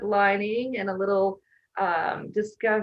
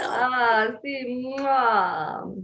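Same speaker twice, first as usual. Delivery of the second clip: cartoon chef; 3 semitones higher, much slower than usual. Mock Italian chef kiss.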